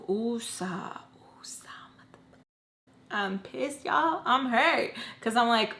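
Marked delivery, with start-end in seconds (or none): 0.0-2.4 sighed calm-down chant fading to a whisper; breathing technique. Retold or imitated. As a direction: breathe out a soothing mantra, fading away. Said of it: "breathing techniques".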